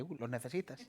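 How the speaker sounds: a soft, coaxing whisper of temptation; a hint of a sly inner voice; tempting soul voice. Soul tempting at shop window.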